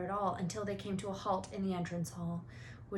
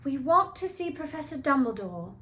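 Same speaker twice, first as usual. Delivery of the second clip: rather bravely; 6 semitones higher, 7 dB louder than usual. Acted. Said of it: "said Hermione rather bravely".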